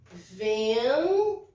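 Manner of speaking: Vento with a resonant nasal ven; nasal demo word. Shown as a demonstration. Teacher showing Vento to the class, nasal ven. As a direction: model Vento, ven through the nose. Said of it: "antes do T é N".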